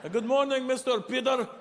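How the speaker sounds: high giggling Russian plumber; giggling Russian accent. Retold or imitated. Russian plumbers greet their client, high giggling Russian accent. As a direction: greet him high and giggling like a little kid. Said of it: "call me by my last name and then giggle".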